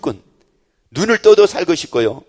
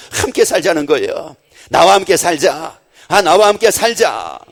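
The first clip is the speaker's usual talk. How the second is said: full-force preaching; 6 dB louder than usual. Acted. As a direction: preach it, pressing the love home. Preaching Jesus's invitation. (열정적으로 외치는 설교)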